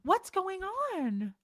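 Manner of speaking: high, very slow whiny plea; hammed-up pleading friend; mock begging friend. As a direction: drag it out like a clingy friend begging. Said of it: "I'm not gonna beg you and be like".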